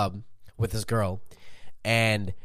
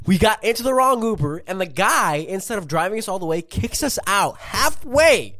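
frat bro; 9 semitones higher, 6 dB louder than usual. Real, not acted. Excited telling of the Uber mishap.

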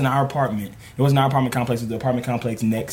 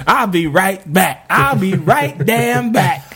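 muttered threat; 7 semitones higher, 4 dB louder, slower than usual. Retold or imitated. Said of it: "and then he goes".

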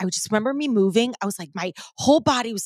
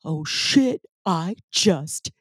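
amazed realization; slower than usual. Retold or imitated. Retelling her second breath round, mock-amazed self-discovery. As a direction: draw it out, then jump up in astonishment. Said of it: "and then I'm like".

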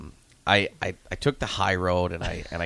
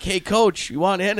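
high, louder mock call-out; imitating eager players; 10 semitones higher, 5 dB louder than usual. Coach imitating players inviting him in, eager high voice.

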